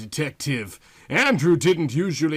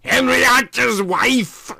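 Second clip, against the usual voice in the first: southern woman exclaiming; 11 semitones higher, 7 dB louder than usual. Acted. Yvonne clarifying, emphatic.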